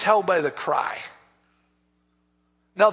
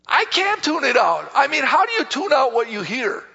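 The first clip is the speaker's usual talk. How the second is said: higher, insistent husband's complaint; exasperated protest; 5 semitones higher, 3 dB louder than usual. Retold or imitated. Husband protesting to wife about night noise, exasperated. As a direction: act out helpless frustration. Acted protest to wife's advice.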